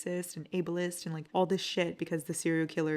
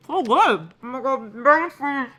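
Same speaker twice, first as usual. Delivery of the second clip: high, loud squeal of delight; 7 semitones higher, 11 dB louder than usual. Real, not acted. Tasting the snack Yana showed her, high and delighted. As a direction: gush over the taste.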